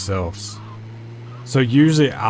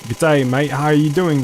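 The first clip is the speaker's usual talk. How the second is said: a light mock Australian accent, a bit higher; 4 semitones higher than usual. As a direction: toss off a cheesy Aussie greeting. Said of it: "kinda like Australians speak".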